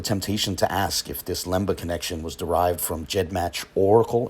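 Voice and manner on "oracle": "Oracle" set apart with deliberate emphasis; stress on Oracle. Real, not acted. Panel-clip host questions a DNA source, stressing "Oracle". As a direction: lean on the word "Oracle". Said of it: "emphasis on Oracle".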